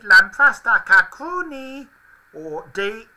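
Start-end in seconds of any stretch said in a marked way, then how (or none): 0.0-1.9 high Furby voice. Pretend. Reading out made-up Furby phrases.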